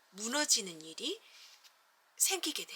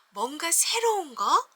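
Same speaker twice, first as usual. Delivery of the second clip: slower, louder, rising wonder; building excitement; 6 semitones higher, 5 dB louder than usual. Shown as a demonstration. Teacher reading to kids, excitement building. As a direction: draw the kids in with growing excitement. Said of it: "감정 표현도 점점점 이렇게".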